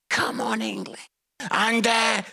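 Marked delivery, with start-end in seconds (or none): 0.1-1.1 hushed, very low half-hearted cheer; reluctant cheer. Retold or imitated. Scottish dad made to support England, feeble cheer. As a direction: force out a feeble, barely voiced cheer.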